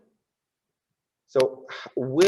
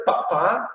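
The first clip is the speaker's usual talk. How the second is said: two short, higher "pa" beats; quarter-beat "pa pa"; 4 semitones higher than usual. Shown as a demonstration. Dance teacher voicing quarter beats, short and crisp. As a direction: tap out "pa, pa" with the voice. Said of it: "here we need a quarter".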